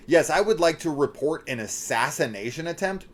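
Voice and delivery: stilted caller with a rising finish; imitating a caller. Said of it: "she's like".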